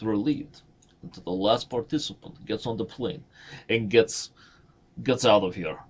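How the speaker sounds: lightly imitated Russian-accented storyteller; Uncle Yermo. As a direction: retell it as a Russian uncle would. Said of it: "very P G version of that Uncle Yermo story".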